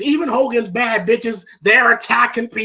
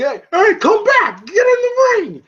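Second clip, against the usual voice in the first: higher, louder calling out; Rocky calling; 12 semitones higher, 4 dB louder than usual. Retold or imitated. Rocky calling Hogan back into the ring, raised voice. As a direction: yell him back into the ring. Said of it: "He's like".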